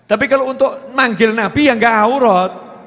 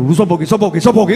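angels mobbing someone; 4 semitones lower, 3 dB louder, much faster than usual. Acted. Angels ganging up on the objector, mock confrontation. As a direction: fire the question off, rising to a yelp. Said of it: "dikeroyok sama malaikat tuh".

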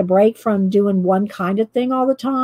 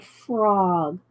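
slow, drawn-out Southern vowel; lightly drawled Southern delivery. Shown as a demonstration. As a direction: draw out "frog" with a Southern drawl. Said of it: "do I have a Southern drawl".

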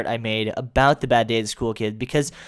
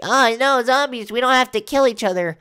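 much higher, pleading naive voice; mock pleading; 10 semitones higher than usual. Survivor begs the zombies to stop, high mock plea. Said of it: "saying, like".

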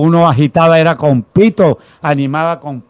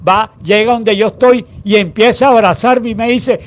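usual speaking voice

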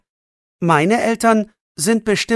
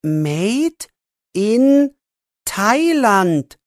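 reading aloud; 4 semitones higher, much slower than usual. A narrator's reading. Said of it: "liest Jannik laut vor".

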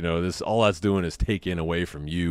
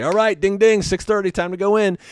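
sing-song parent call, higher; calling time; 12 semitones higher, 3 dB louder than usual. Retold or imitated. Parents calling the kids in, sing-song higher. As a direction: ring it out like a bell for the kids. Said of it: "All the parents say".

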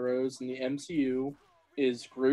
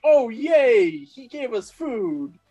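mock joyful tiny aliens; 7 semitones higher, 5 dB louder, slower than usual. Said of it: "And they're like".

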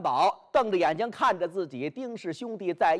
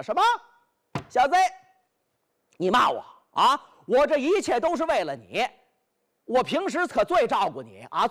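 indignant retort; 4 semitones higher than usual. Acted. Xu Qing retorts after being insulted.

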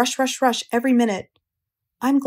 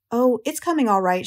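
light; 2 semitones higher than usual. Acted. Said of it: "she said lightly".

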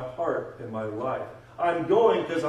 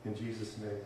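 leading prayer. Real, not acted. Preacher asking Heavenly Father to forgive compromise, prayerful.

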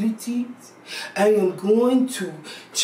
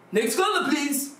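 calling the next caller; 2 semitones higher than usual. Acted. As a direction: call it out in a raised pitch. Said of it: "I'm going to say this".

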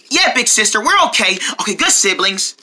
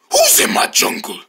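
bear voice; 3 semitones higher, slower than usual. Acted. Bear character discovers intruders.

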